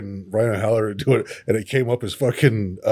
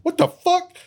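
stunned. Retold or imitated. Friend in the back spots the star, stunned. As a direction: blurt it out in disbelief.

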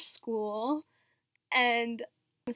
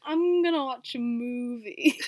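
Austin Powers voice. Retold or imitated. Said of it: "That's just the way that I read it".

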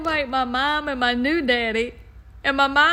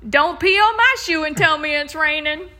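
Judge Judy; 3 semitones higher, 5 dB louder than usual. Retold or imitated. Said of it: "That's what she always says".

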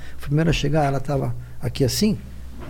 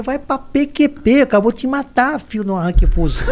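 mock furious yell; 7 semitones higher, 3 dB louder than usual. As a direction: scold him like you'd kill him, half laughing. Yelling at father for the prank.

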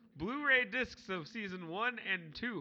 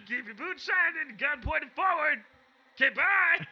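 high, louder squeak with a laugh; future Andy voice; 5 semitones higher, 6 dB louder than usual. Acted. Future Andy signing off to Victor in a squeak. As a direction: squeak goodbye. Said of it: "talk like this at all times".

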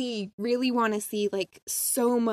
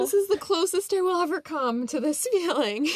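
overwhelmed; 6 semitones higher than usual. Real, not acted. Fan overwhelmed with joy.

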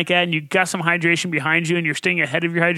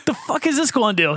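laughing disbelief; 6 semitones higher, faster than usual. Retold or imitated. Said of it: "you're like".

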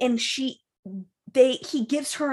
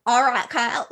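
lightly imitated Southern accent. Brother addressing Kyle, imitated Southern accent. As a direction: put on a hint of a Southern accent. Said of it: "the brother does have an accent".

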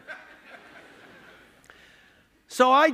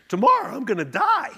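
laughing dread; 8 semitones higher, 6 dB louder than usual. Retold or imitated.

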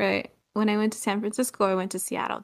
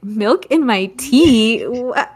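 shocked disbelief; 6 dB louder than usual. Retold or imitated. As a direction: drag it out like the idea is absurd. Offered milk for her tea.

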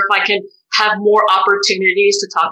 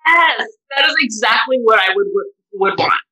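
emotional yes; 2 semitones higher than usual. Real, not acted. Guest answering her tearful friend, emotional and excited. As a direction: burst out, moved and grateful.

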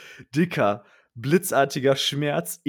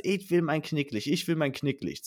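mock whine; 3 semitones higher than usual. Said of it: "heult die ganze".

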